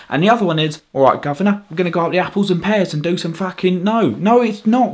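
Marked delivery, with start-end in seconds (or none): 0.9-3.8 mock Cockney caricature; Cockney accent. Brit mocking the other stereotype accent, exaggerated Cockney. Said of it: "Not just Cockney and posh".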